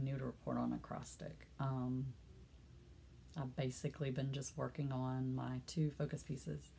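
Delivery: stuffy voice from allergies. Real, not acted. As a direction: talk through allergy congestion. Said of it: "My allergies are killing me".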